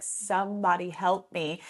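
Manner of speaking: slow, melodramatic little cry for help; mock child's wail. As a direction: play the toddler's overdone distress, lightly. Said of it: "crying these huge tears".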